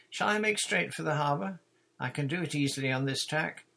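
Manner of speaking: high, loud call over the water; calling across water. A narrator's reading. Susan hailing the other boat across the water, high and loud. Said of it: "Mate Susan called across the water".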